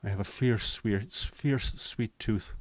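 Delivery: a hint of an Irish lilt; light Irish accent. Streamer reading a chat message in a touch of Irish accent. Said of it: "reading that in an Irish accent".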